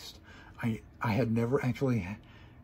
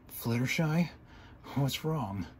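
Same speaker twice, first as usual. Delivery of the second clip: panicked; 2 semitones higher, slower than usual. A narrator's reading. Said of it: "I asked in a panicked voice".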